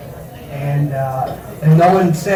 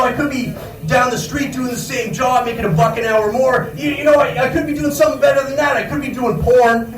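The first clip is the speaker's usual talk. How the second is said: mock optimist; 6 semitones higher than usual. Mocking coworkers' optimistic voice.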